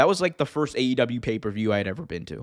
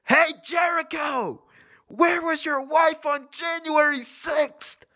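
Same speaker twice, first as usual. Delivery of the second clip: high, slow imitated scream across an arena; mock scream at a wrestler; top-of-lungs heckle; 13 semitones higher, slower than usual. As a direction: heckle from the next section, stretching each word. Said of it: "just at the top of his lungs".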